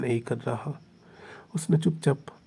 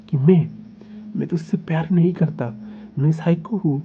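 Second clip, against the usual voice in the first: heated passionate protest. Acted. Heated lover's protest of devotion.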